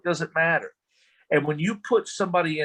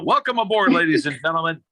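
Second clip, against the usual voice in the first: mock show host; 2 semitones higher, 6 dB louder than usual. Mock hosting the panel.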